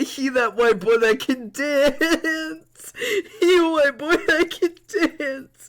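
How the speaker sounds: high, loud cheer close to laughter; hysterical delight. Real, not acted. Streamer hyping the dancing character, hysterically delighted. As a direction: crow it slowly, about to crack up.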